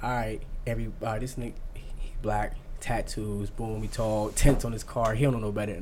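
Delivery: low, hushed imitation of police thinking; cop's muttered assessment. Police looking him over at a stop, low muttered appraisal. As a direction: drop the voice, as if ticking off details privately.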